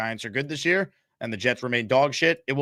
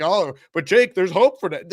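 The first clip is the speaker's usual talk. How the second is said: mock hopeful fan; 3 semitones higher, 4 dB louder than usual. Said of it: "pretend like".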